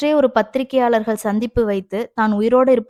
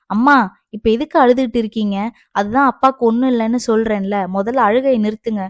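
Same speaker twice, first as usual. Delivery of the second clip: annoyed, louder scolding of a parent; angry; 4 dB louder, faster than usual. Acted. Daughter scolds her crying mother at the hospital, angry. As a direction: scold with rising impatience. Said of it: "அதிதிக்கு கோபம்தான் வந்தது".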